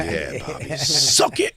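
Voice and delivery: high, put-on voice egging him on; mock Norton. Mocking Norton cheering on Bobby in a high put-on voice. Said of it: "Norton while he was nodding".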